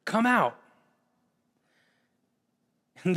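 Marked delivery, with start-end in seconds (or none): 0.0-0.6 mild mock call. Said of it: "he yells out".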